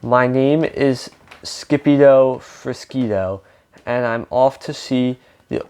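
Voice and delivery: lightly put-on Spanish accent in rhythmic verse; mild storybook Spanish accent; attempted Spanish accent. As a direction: recite the rhyme with a hint of Spanish accent. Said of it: "he's trying to speak in a Spanish accent".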